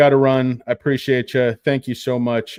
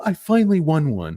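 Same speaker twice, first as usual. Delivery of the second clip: triumphant; 7 semitones higher, 3 dB louder than usual. Retold or imitated. A long-awaited win.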